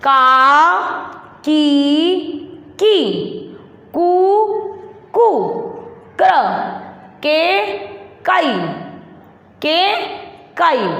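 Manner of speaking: each syllable said separately; syllable drill. Shown as a demonstration. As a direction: call out syllables one by one for children. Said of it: "तो देखो बोलो". (एक-एक अक्षर अलग-अलग बोलना)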